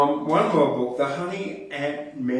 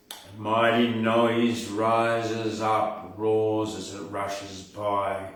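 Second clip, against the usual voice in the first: dramatic poem reading; 4 dB louder than usual. Shown as a demonstration. Host reads the English Thunder poem to his listeners, booming recital. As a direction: let each line swell and roar like the storm. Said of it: "Then in English".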